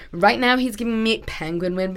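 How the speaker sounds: attempted American accent, a little halting. Shown as a demonstration. Co-host doing the quote on demand, attempted American accent. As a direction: try out a put-on American accent. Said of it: "then you say it in his accent".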